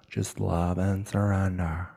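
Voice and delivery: slow, drawn-out airy guru persona; Becky. Acted. Podcaster slips into a self-love guru, playful Becky voice. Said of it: "It's Becky".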